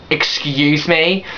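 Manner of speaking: slow, drawn-out excuse me; slow outraged disbelief; drawn-out indignant. Retold or imitated. Retold shocked reaction.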